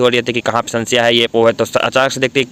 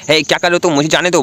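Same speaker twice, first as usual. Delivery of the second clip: pitched-up startled cry to be let go; startled protest; 6 semitones higher than usual. Acted. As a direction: caught off guard, yelp at him. Grabbed and pulled onto him. (चौंककर ऊँची आवाज़ में विरोध)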